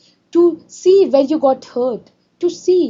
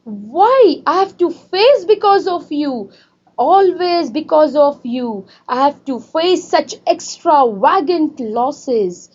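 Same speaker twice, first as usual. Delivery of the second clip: teacher voicing a cross mother scolding her daughter; mock angry shout; 3 semitones higher than usual. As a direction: snap at the child as if she is to blame. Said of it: "she shouted".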